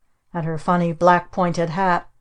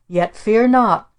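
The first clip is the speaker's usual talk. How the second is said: mock witch speech; 4 semitones higher, 5 dB louder, slower than usual. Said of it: "Our Aunt Esta made a speech".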